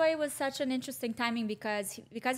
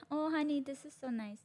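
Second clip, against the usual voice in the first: higher start, softening into sweet reassurance; mock indulgent; 5 semitones higher, 3 dB quieter than usual. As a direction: humour a loved one, playfully acted. Imagines partner humouring her content.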